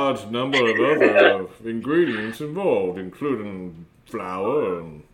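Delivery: put-on robot mouth keeps rambling in a light Minnesota accent; chatty Minnesota recipe talk, slowing near the end; a hint of Minnesota, amused. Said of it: "this is a Minnesota accent".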